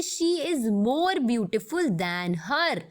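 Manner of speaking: slow, careful correct sentence; teacher reading out the correct English example, slowly. Shown as a demonstration. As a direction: read the right form slowly and clearly. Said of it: "ये एकदम गलत English".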